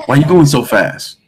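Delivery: imitated cop's question. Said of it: "he didn't say it like that".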